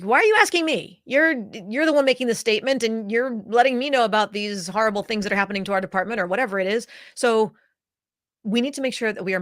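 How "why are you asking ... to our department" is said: exasperated listener. Retold or imitated.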